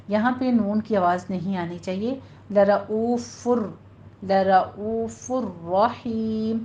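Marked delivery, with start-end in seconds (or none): 2.5-6.6 لَرَؤُوفٌ رَحِيمٌ with the nun merged into ra; no nun sound. Shown as a demonstration. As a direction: recite لَرَؤُوفٌ رَحِيمٌ, no n before ra. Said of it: "را کی sound آئے گی".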